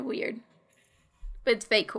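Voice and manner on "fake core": "fake core" joined into one word. Shown as a demonstration. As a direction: run "fake core" together without a gap. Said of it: "it's one word and not two words".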